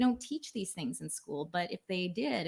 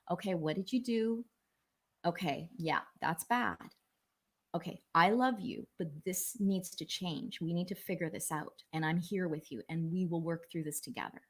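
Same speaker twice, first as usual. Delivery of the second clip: gentle parent. Retold or imitated. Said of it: "a good parent says".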